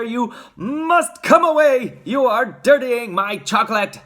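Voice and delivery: agitated high, loud protest; frantic, emphatic outcry; Mister Wonka. A narrator's reading. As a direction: order him away, stretching the words. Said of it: "cried Mister Wonka, hopping up and down".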